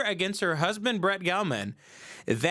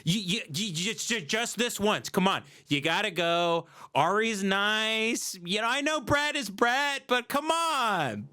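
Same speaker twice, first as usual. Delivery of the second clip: mock pleading, rising higher; pleading wife; 4 semitones higher than usual. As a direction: coax and wheedle like a wife. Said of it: "And she's like".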